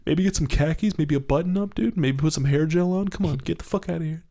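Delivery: a hint of a bouncer brushing off. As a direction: wave the guy off, bouncer-like. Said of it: "and you stop and you go".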